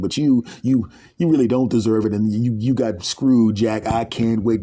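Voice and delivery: a hint of a gleeful devil; gloating devil. Devil gloating at the new arrival, gleeful. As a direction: relish the torture to come.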